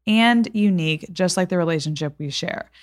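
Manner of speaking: measured, scripted sponsor read; podcast ad read. Acted. Host telling listeners about a gift sponsor, ad read. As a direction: read the sponsor copy with even, deliberate phrasing.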